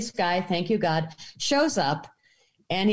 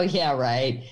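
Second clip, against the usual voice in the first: low, dropping, mock disbelief; dismissive scoff; 6 semitones lower than usual. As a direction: imitate a doubter brushing it off. Imagined sceptical first viewing.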